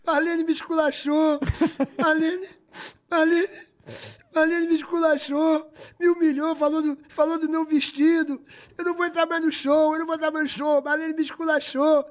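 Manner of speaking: high, slow whiny sob voice; mock crying. Xuxa sobbing to Serginho in her dressing room, high mock whine. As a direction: whimper like a wounded star. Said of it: "a Xuxa chorando aos prantos".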